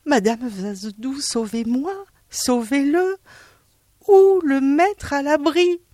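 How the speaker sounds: high, pleading wail, slowing at the end; panicked pleading. Acted. Monsieur Dard begging Madame Vazedoux to save his salt, high panicked plea.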